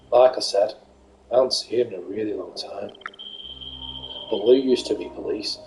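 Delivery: quiet, grave detective voice; low and solemn; somber detective. Acted. Voicing Nate, detective.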